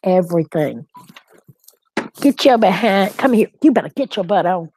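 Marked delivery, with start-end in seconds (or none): 2.2-4.7 louder stern come-here; firm pet command; calling the dog. Real, not acted. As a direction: order the puppy over, quickly. Calling puppy back again.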